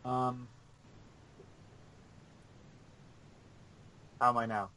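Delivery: distant, off-mic voice; speaking from far off. Real, not acted.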